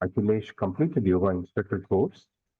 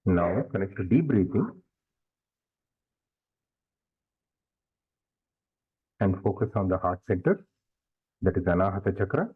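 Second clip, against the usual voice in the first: guided meditation. Real, not acted. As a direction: lead them gradually into stillness, leaving long silences.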